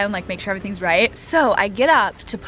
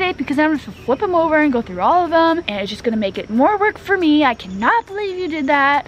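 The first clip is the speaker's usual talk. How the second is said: retold angry yelling; 5 semitones higher than usual. Teacher snapping at the student over a face-down test, mock yell. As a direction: replay the teacher's rant as a mild mock yell. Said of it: "screaming at me".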